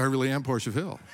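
laughing through the words; laughing insistence. Retold or imitated. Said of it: "And I said".

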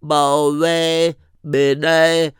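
put-on slow, careful child's recitation; toddler reciting a bracha. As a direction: sound it out like a little boy learning. Toddler saying a blessing.

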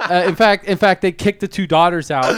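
laughing through the words; words breaking into laughter. Real, not acted. Laughing while telling story.

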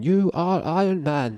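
slow, high booming announcer call. Retold or imitated. Finish-line announcer on the mic, slow booming call. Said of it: "the guy in the mic going".

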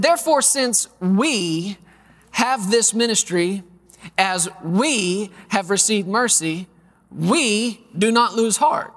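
slow, deliberate reading of the verse; scripture reading. Acted. Preacher reading Corinthians aloud to the congregation, slow and deliberate. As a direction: read it slowly, weighing each phrase.

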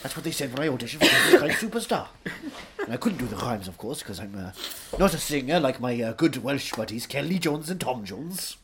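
lightly voiced Welsh raconteur; Anthony Hopkins. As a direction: hold forth as a theatrical Welsh actor.

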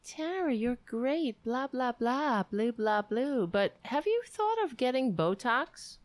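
high, sing-song mocking read of a fan note; high mock-sweet fan voice; mock fan message. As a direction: parody the sweet then catty fan. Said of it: "sent me a message saying".

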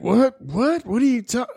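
high, baffled what; confused surprise. Retold or imitated. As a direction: act out bewildered confusion. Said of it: "he's like".

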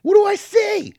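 high, loud gruff wrestler voice; wrestling promo voice. Retold or imitated. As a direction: ham it up like a meathead wrestler. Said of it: "They were just like".

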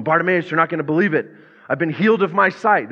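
mock-excited neighbour; excited gossip. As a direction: burst in with the big news. Excited townspeople telling Bartimaeus.

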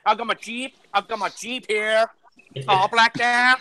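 hammed-up redneck American; mock redneck accent. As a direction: imitate a proud redneck truck owner. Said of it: "'cause you're a redneck".

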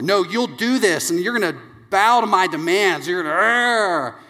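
hammed-up exasperated ordering; domineering parent. Dad forces daughter to obey, mock-domineering growl.

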